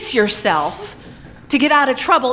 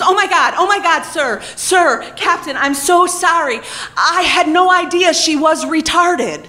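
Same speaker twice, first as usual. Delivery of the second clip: flustered mentor; 3 semitones higher than usual. Retold or imitated. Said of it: "she steps in and she goes".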